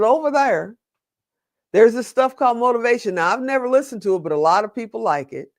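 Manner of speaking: lightly put-on Southern lady pointing the way; Southern accent. Librarian pointing a stranger to the tapes, mild Southern accent. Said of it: "she had this Southern accent".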